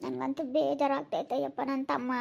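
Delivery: soft, sorrowful lament; hushed and hurt; downcast. Acted. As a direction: brood quietly to yourself, upset. Upset woman brooding alone after crying.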